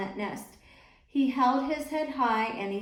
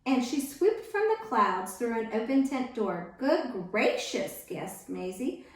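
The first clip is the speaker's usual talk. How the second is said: put-on lively read-aloud for children; storybook reading. A narrator's reading. Reading picture book aloud.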